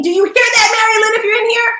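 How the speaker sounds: high, loud call across the room. Real, not acted. Host calling to Mary Lynn in the audience, high loud call. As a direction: call out to a friend somewhere in the crowd.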